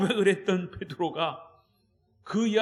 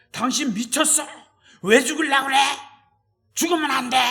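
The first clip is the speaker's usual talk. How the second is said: higher, louder frantic protest; 5 semitones higher, 5 dB louder than usual. Acted. Peter pleading with Jesus not to die, frantic. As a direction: grab him and beg him not to die. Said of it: "막 이렇게 항변하듯이".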